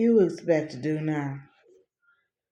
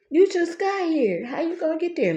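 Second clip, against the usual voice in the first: questioning mama; 9 semitones higher than usual. Retold or imitated. Mother questioning her leaving, acted out.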